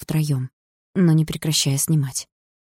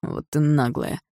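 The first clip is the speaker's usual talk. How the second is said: amazed; slower than usual. Acted. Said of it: "поразился Дима".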